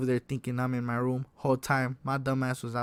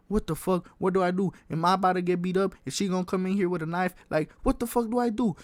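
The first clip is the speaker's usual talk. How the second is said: retold panic, raised pitch; panicked; 5 semitones higher, faster than usual. Teller replaying his own thoughts in his room, panicked. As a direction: voice racing, worried thoughts aloud.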